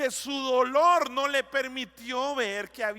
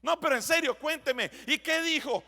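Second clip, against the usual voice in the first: wife insisting; 3 semitones higher than usual. Retold or imitated. Wife pressing for details.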